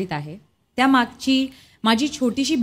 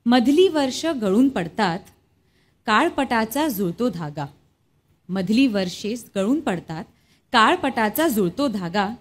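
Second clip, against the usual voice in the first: measured, lilting verse reading with pauses between phrases; poem recitation. Acted. Reciting Shanta Shelke's poem about grandmother's Paithani to guests, poem recitation.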